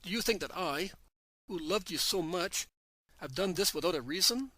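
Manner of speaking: loud, insistent command. Acted. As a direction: lift the voice over the crowd. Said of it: "in an even louder voice".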